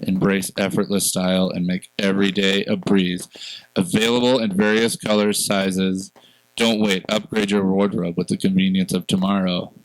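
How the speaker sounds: smooth, scripted ad read; commercial voice. Acted. Host reading podcast sponsor's ad for self-buttoning pants, commercial voice. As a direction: pitch the product like a commercial announcer. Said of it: "put on your commercial voice".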